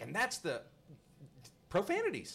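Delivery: high, loud angry pointing rant; old man yelling about him to wife; mock yelling. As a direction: yell across the checkout. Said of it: "he's yelling".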